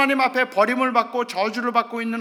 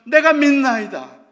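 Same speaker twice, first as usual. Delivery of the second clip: father's confession; 3 semitones higher, 11 dB louder, slower than usual. Acted. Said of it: "아버지가 하는 고백".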